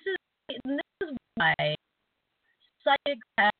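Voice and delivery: choppy bad connection; breaking up on a call. Real, not acted. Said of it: "you're breaking up pretty bad".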